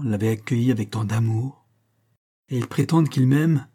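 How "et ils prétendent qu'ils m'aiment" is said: bitter outcry. Acted. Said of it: "s'écria-t-elle".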